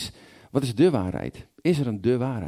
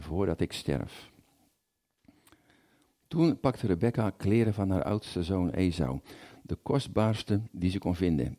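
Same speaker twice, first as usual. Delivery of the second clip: Bible reading. A narrator's reading. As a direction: read scripture to the congregation, acting out the speakers. Reads Genesis aloud in sermon.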